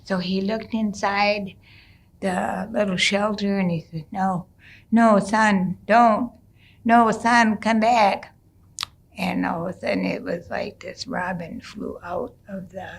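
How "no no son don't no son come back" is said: louder, higher desperate plea; pleading call. Retold or imitated. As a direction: beg him to come back. Father sees son turning robin.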